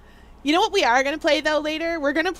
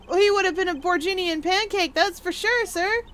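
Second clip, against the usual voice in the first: higher-pitched character voice; plain-spoken subordinate; 7 semitones higher than usual. Acted. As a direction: answer the superior readily and emphatically.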